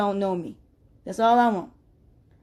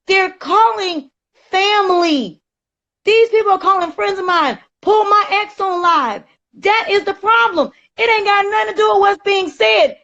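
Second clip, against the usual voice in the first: heated rant; 6 semitones higher than usual. Real, not acted. Defending herself against online harassers.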